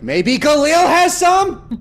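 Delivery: high, loud and slow; drawn-out squeaky suggestion; high silly voice. Acted. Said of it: "I'm like".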